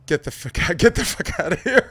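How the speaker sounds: Louis Gossett Junior quote. Retold or imitated. Host to guest quoting Officer and a Gentleman, hammed-up drill-sergeant yell. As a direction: bellow it like a movie drill instructor. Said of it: "To quote the great Louis Gossett Junior".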